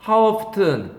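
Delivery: often said with a clear T, "off-ten"; How often with the T pronounced; T sounded in often. Shown as a demonstration. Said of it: "often T가 발음이 돼요".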